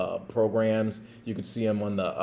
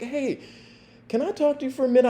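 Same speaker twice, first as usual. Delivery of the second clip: quick polite ask; 14 semitones higher, much faster than usual. Retold or imitated. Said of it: "I'm just like".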